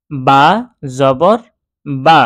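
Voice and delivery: loud, separate recitation of বা, জবর, বা; letter, vowel name, then syllable বা; spelling out. Shown as a demonstration. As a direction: spell out বা, জবর, বা one piece at a time. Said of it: "বানান করে পড়লাম".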